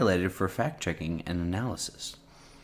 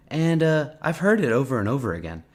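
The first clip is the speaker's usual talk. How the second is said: pitched-up mock presidential cadence; Trump accent; 5 semitones higher than usual. Answering on Afghanistan, in a high Trump accent. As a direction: imitate the president's way of talking, higher. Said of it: "in a Trump accent?".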